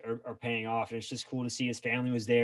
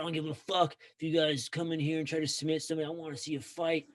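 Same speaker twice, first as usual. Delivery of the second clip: higher, gruff rant that wants a real fight; Dana White rant; 3 semitones higher, 4 dB quieter than usual. Retold or imitated. Boss chewing out fighters before the fight, an imitated rant. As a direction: lay into the fighters like a demanding promoter. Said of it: "He's like".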